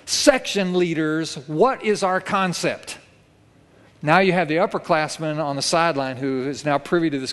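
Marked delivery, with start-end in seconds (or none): 0.1-3.0 slow, raised drill-sergeant call; barked command. Retold or imitated. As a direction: bark it out like a boot camp sergeant. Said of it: "he barks out".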